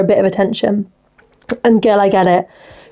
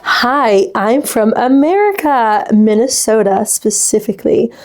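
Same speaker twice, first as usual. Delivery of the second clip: lightly put-on American accent; a touch of American twang. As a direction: introduce yourself as an American. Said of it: "Guys, we've got an American".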